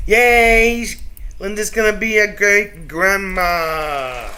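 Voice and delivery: loud, high, slow happy announcement; excited cheer. Real, not acted. Cheering Linda's news, loud and high.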